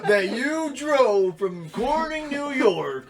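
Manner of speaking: high disbelieving voice; incredulous. Retold or imitated. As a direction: act shocked and disbelieving. Acting out a disbelieving listener.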